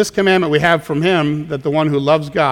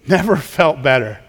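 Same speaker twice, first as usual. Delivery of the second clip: laughing. Real, not acted. Callback to joke, laughing.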